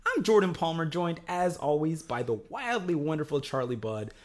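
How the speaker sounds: bright, upbeat announcer read; podcast host intro. Acted. Host opening the podcast for listeners, upbeat announcer read. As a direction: welcome listeners to the show like a host.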